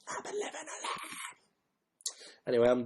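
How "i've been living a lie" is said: whispered lyric. Pretend.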